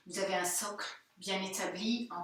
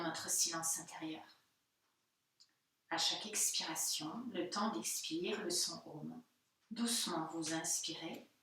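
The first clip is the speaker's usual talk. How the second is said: guided meditation. Real, not acted. Yoga teacher guiding students into inner silence, calm meditative delivery. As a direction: lead them gently inward, unhurried.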